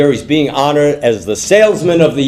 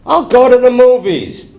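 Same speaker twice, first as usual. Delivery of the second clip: high, exclaimed realization; pitched-up eureka moment; sudden bright idea; 10 semitones higher than usual. Acted. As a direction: burst out with a brainwave. Husband suddenly has an idea.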